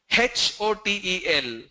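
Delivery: H with an h sound in front; H as "hech". Shown as a demonstration. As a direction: spell it with a sneezy "hech" for H. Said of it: "I feel like they're sneezing".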